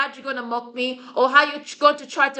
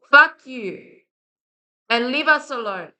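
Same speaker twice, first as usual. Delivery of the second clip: angry curse. Real, not acted. Cursing those causing issues.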